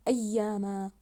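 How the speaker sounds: "أياما" with the doubled ي held and stressed; stressed doubled letter. Shown as a demonstration. Teacher showing pupils the shadda, stressed doubled letter. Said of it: "الحرف الذي فوقه الشدة".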